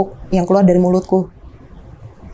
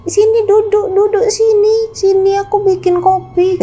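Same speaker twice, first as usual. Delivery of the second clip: put-on much higher, slower inviting old man; imitating father; 13 semitones higher than usual. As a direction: call high and slow like a confused father inviting a ghost. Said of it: "katanya gitu".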